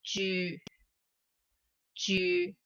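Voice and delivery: teacher slowly modelling 住 for the class; Cantonese particle 住. Shown as a demonstration. Teacher modelling 住 for Cantonese learners, soft and clear. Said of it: "We pronounce as".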